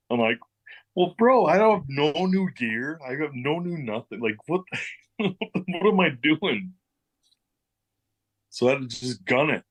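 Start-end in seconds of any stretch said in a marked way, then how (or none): 1.0-6.7 retold panic. Retold panic before main event.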